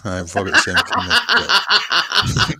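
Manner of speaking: put-on Scottish accent. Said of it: "with your Scottish accent".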